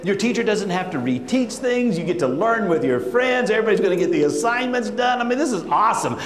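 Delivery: thrilled celebration. Retold or imitated. Principal cheering a full classroom, high and bubbly. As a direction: gush like the best news ever.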